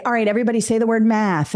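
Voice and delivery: lightly acted teacher rallying everybody; teacher prompting. Shown as a demonstration. Teacher starts the substitution drill, brisk prompting. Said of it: "And I say".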